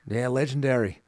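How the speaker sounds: a light Australian twang on legendary; lightly voiced Aussie, leaning on legendary; half-hearted Australian accent. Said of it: "That was very good".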